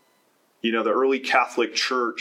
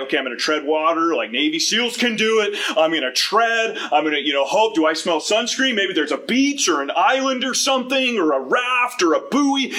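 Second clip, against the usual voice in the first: hopeful Jonah; 5 semitones higher than usual. Retold or imitated. Imagined Jonah treading water hopefully.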